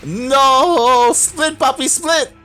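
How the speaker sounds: very high, loud cry of dismay; frantic play-by-play at full pitch; frantic commentator shout. Real, not acted. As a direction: scream urgent orders at the players. Units caught in live match.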